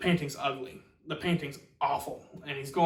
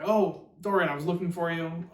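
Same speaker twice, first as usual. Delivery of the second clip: raised, louder mock-surprised greeting; 3 semitones higher, 5 dB louder than usual. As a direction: act out a chance meeting, voice lifting. Retold greeting on running into Dorian.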